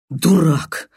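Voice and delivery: usual speaking voice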